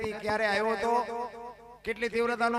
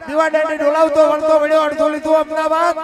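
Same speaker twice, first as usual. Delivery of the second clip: louder rhythmic verse, driving each line home; louder, rhythmic folk-verse chant rolling from town to town; folk poem recitation; 3 dB louder than usual. Acted. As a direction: declaim the earthquake ballad to the crowd. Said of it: "એની તમને યાદી કરાવું".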